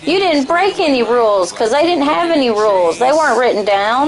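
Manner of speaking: put-on lightly parodied country-accented excuse-making. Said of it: "That's corny with the country accent".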